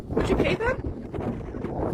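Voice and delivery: drawn-out near-whisper, pointed; slow hushed question. Real, not acted. Ranting to viewers about tax, slow hushed rhetorical question. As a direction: lean in and ask it slowly under the breath.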